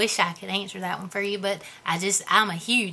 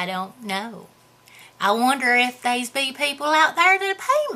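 hillbilly character voice. Acted. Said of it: "I just started talking like this".

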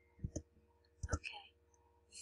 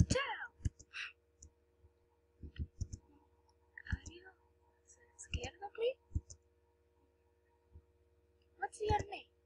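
put-on Italian accent; 2 semitones higher, 6 dB louder than usual. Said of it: "I haven't got the entire accent".

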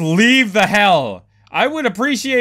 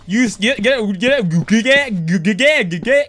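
shouted, frantic and loud; panicked shouting; 5 semitones higher, 4 dB louder than usual. Real, not acted. Player fleeing a monster, yelling panicked and loud. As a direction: yell at it to get out of the way.

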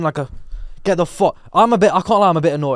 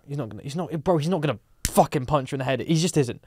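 soft, low-key reassurance; gentle, matter-of-fact reassuring; comforting; 3 semitones lower, 8 dB quieter than usual. Retold or imitated. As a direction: quietly talk someone down. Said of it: "I've comforted her".

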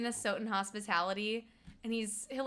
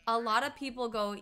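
usual speaking voice

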